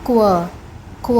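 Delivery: क्व said as a quick k gliding into w; क्व like the start of queen; kw sound. Shown as a demonstration. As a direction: round the lips on क्व. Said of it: "तो इसके लिए हम बोलेंगे क्व".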